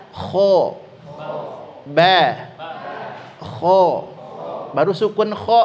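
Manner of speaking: short drilled syllables, each said firmly. Shown as a demonstration. Teacher leading the class drill. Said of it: "Coba sama-sama".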